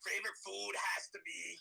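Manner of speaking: soft, animated New York impression; hammed-up New York accent; thick New York accent. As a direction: talk like a die-hard New York local. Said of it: "Let's hear that thick New York accent".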